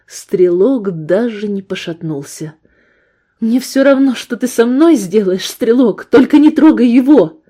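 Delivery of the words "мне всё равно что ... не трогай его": high loud pleading cry; desperate plea. Acted. Woman begging the gunman to leave her friend alone. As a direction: beg him to spare him.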